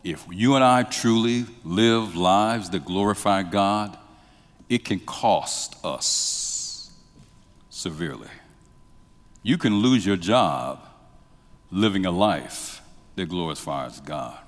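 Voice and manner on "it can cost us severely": hushed warning. Real, not acted. Preacher to congregation, hushed and slow. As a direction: drop to a near-whisper, slow.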